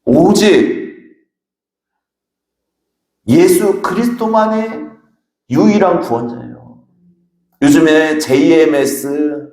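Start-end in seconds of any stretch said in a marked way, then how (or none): 0.0-6.8 preaching emphasis. Real, not acted. Preaching climax, rising.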